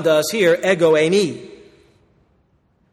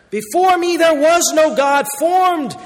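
raised, ringing proclamation; preacher's shout; 6 semitones higher than usual. Acted. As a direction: shout it out as the Lord's claim. Climax of Isaiah quote.

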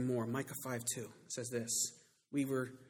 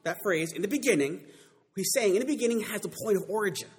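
raised, loud teaching from the pulpit; emphatic preaching; 5 semitones higher, 7 dB louder than usual. Acted. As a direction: drive the point home to the congregation. Preacher drives home a phrase.

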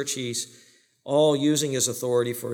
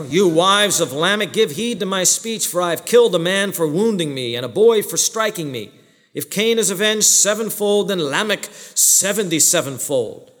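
1 pompous Lamech; 3 semitones higher than usual. Acted. Lamech boasting to his wives again.

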